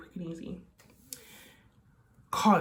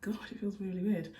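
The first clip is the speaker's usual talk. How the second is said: echoey room; 4 dB quieter than usual. Real, not acted. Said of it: "it's really echoey in here".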